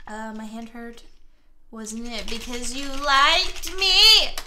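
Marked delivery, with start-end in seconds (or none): 1.7-4.4 slow, louder teasing question. Acted. Player teasing the partner's line as they read. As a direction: draw it out playfully.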